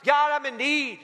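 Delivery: imitated praying yell. Lady in need asks God for groceries, mock yelled prayer. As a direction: call out like a woman praying from her porch. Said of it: "she just yelled out at".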